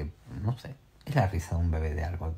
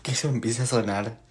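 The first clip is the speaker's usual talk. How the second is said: frightened; 3 semitones higher, 5 dB louder than usual. Real, not acted. Still frightened.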